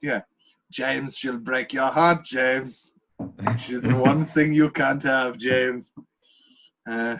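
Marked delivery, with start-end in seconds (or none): 0.7-5.9 sinister movie-villain impression. Recounting a film scene, quoting the villain's line: Christoph Waltz villain impression. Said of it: "That was like Voldemort meets Timothy Spall".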